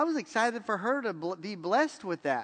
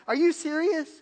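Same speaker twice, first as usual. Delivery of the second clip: habitual are you serious; 7 semitones higher, 5 dB louder than usual. Shown as a demonstration. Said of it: "my first reaction is".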